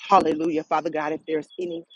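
earnest praying with hallelujahs; fervent prayer. Acted. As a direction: pray it aloud with rising fervor. Leads a spoken prayer.

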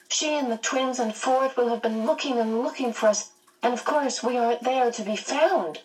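high-pitched worried fretting; anxious. A narrator's reading. Meg fretting about her family, in a high, anxious voice. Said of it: "Meg asked anxiously".

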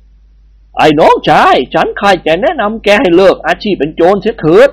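slow, gentle royal counsel; kindly advice. Acted. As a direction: urge him kindly to reform. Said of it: "ด้วยความกรุณา".

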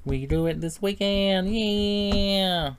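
high, loud, drawn-out cheer; excited suggestion. Real, not acted. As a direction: pitch it up with a long, hopeful yell. Suddenly hopeful suggestion of game night.

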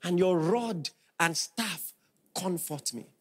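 tender soft close; hushed ending. Real, not acted. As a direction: let the verse fall to a hush. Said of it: "psalm trails off".

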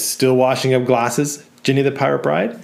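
taunting repeat. Acted. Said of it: "Matthew says".

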